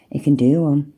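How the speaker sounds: whispered under the breath; a dismissive whisper to the chat; whispered aside. Real, not acted. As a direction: drop to a whisper, brushing him off.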